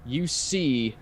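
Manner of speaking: slow, measured scene setting; game master narration. Acted. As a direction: unveil the scene piece by piece, unhurried. Game master describes frozen dragon.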